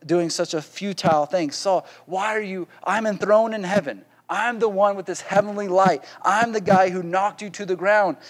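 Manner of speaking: a hint of the enthroned Lord asking why; Jesus questioning Saul. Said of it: "emphasis on the why part".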